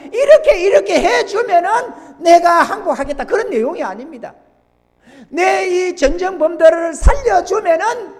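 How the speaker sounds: loud, high-pitched sermon delivery; forceful preaching. Real, not acted. Preacher explains unconditional surrender to congregation, forceful preaching. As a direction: preach it hard, driving home each point.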